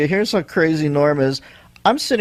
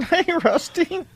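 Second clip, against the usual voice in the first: not man voice; 12 semitones higher, slower than usual. Pretend. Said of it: "Let me give you my man voice".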